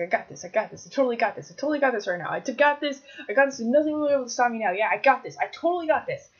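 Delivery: quick, rising self-hype; cocky self-assurance. Acted. Player convincing himself he's got this, mock-cocky. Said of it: "It's like".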